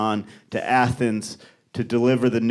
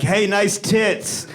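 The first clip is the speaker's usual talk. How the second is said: slow sleazy line; 5 semitones higher, much slower than usual. Retold or imitated. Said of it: "just be like".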